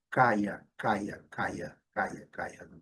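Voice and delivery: "caia" as KAI-a, repeated as a drill; sílaba isolada. Shown as a demonstration. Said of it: "mas não é psychiatry". ("caia" repetido, cada vez mais baixo)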